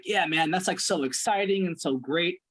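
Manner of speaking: mildly excited quote, intonation lifted; imitated excitement. Coach replaying a client's earlier reaction, mildly excited. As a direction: echo someone's excitement with a slight lift. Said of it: "excited and energetic and your voice intonation went up".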